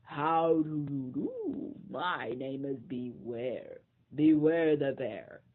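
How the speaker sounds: slow, polite bear introduction; a friendly bear introducing himself slowly; lightly growled slow greeting. Acted. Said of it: "a bear thudded up ... and announced".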